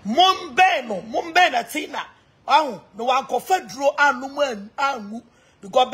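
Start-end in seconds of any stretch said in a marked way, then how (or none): 0.1-2.0 calling out. Real, not acted. Calling out name.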